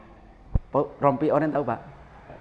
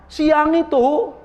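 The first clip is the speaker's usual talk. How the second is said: high, louder and slow, drawn out; sheepish admission; 12 semitones higher, 6 dB louder, much slower than usual. Retold or imitated. A worshipper tells the ustadz he ate at midday, drawn-out sheepish voice. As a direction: stretch it out like an embarrassed confession.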